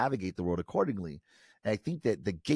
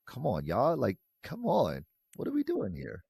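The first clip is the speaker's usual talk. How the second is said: exasperated; 5 semitones higher than usual. Real, not acted. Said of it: "exasperated appeal".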